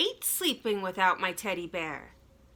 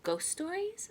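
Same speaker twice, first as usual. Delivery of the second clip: much higher, startled; alarmed boy; 9 semitones higher, 4 dB quieter than usual. Acted. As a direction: squeak with alarm. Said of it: "I said".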